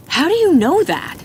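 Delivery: high loud demanding question; sharp demand. A narrator's reading. Narrator demanding an answer from Gunner's back, sharp and loud. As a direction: demand an answer right now.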